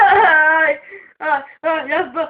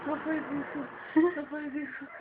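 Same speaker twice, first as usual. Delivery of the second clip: whispering while hiding; 4 semitones lower, 12 dB quieter, faster than usual. Real, not acted. Quiet pleading during the pulling.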